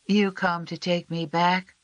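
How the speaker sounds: put-on high, slow small boy's voice; a frightened sick little boy asking timidly; young runaway boy, anxious and unsure; Sam. A narrator's reading.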